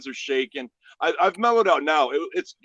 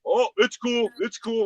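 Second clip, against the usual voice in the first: much higher, placating mimicry; imitated backing down; 8 semitones higher than usual. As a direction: plead like a man facing a gun. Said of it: "like that".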